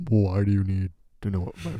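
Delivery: lightly hammed-up voice-memo voice; put-on voice. Recording a voice memo for a suspected scammer, put-on voice. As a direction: ham it up a little after clearing the throat. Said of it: "why'd you do it like that".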